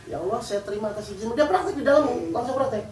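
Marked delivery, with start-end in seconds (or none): 0.1-1.3 quiet surrender. Retold or imitated. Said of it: "Jadi pas dimaki-maki tuh".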